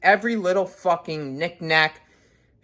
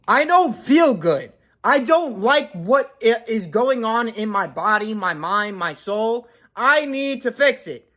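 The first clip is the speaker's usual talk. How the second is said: higher, slower urgent self-talk; imagined inner voice; 4 semitones higher than usual. Retold or imitated. Vlogger voicing his own inner thoughts, higher and slower urgent plea. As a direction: plead with yourself to fix it now. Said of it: "I'd be like".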